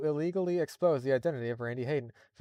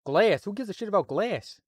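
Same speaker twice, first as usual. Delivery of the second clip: louder, rising TF2 Scout warm-up; 5 semitones higher, 5 dB louder, slower than usual. Retold or imitated. Warming up into the Scout voice, a brash yell. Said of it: "his lead-in line for doing the Scout voice".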